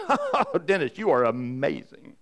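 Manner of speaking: mock cheer on the Oh, sliding into dry sarcasm; tongue-in-cheek pat on the back; sarcastic self-praise. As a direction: sarcastically praise yourself after a mistake. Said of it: "was that sarcasm".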